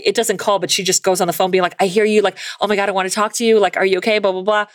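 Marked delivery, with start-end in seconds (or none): 1.8-4.7 dramatic fifties voice. Acted. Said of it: "dramatic nineteen fifties voice".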